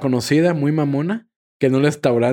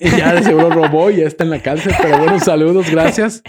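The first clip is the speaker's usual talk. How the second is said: laughing and louder; 2 semitones higher, 4 dB louder than usual. Real, not acted. Host to the audience, laughing while he signs off. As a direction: sign off mid-laugh, loud and amused. Jokes the clerk ended in jail.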